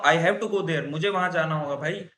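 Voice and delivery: firm, insistent "I have to go there"; urgent, must-go insistence; compulsion tone. Shown as a demonstration. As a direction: say it like you really must go. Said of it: "और मैं बोलूँ".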